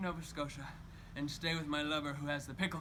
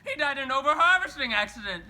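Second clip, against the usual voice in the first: laughing cry; 8 semitones higher, 8 dB louder than usual. Acted. Laughing-crying about dead lover.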